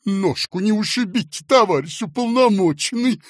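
high, loud, sugary solicitude; tender fussing. A narrator's reading. Fat man helping an official into lift, tender fussing. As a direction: coo it with exaggerated care. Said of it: "нежно сказал толстяк".

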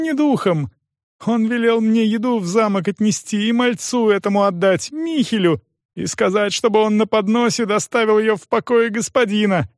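put-on high, pleading young voice; frightened cripple. Стефан оправдывается перед допросом, высоким испуганным голосом.

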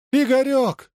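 very high, anguished cry of the name; mother's despairing howl; desperate wail. A narrator's reading. Mother crying out to her son hanging upside down, desperate wail. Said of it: "отчаянный материнский вопль".

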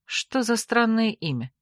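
usual speaking voice

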